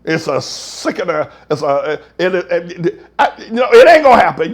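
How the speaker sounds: ordinary talk, nothing marked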